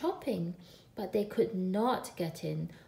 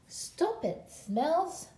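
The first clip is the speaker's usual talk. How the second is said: cross little wolf; 7 semitones higher, much slower than usual. A narrator's reading. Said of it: "said Little Wolf".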